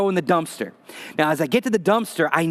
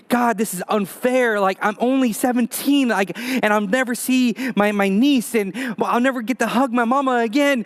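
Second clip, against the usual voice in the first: desperate inner plea; 4 semitones higher than usual. Retold or imitated.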